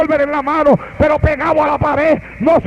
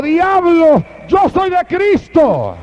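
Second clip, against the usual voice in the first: raised, slow, firm rebuke of the devil; old man stands his ground, slow and high; old man rebuking the devil; 5 semitones higher, much slower than usual. Acted. Old father to the devil, slow raised rebuke.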